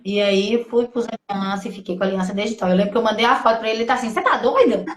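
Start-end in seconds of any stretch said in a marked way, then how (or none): 4.1-5.0 amused imitation of disbelief; laughing mock-incredulous question; laughing retold quote. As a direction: quote the reaction through a laugh. Retells his reaction, laughing.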